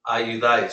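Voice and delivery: Ayudáis stressed on final DÁIS; accent-mark stress. Shown as a demonstration. Teacher repeating Ayudáis for practice, stressed on DÁIS. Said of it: "stress that letter instead of".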